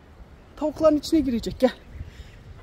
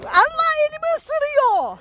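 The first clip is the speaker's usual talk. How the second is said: much higher, slow squeal; pained squeal; 3 dB louder than usual. Real, not acted. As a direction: squeal as she bites your hand. Bitten on the hand.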